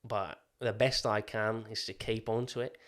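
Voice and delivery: out-of-practice Australian accent. Shown as a demonstration. Admitting it may slip, attempted Australian accent. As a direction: hang on to a wobbly Australian accent. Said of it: "So I might lose it".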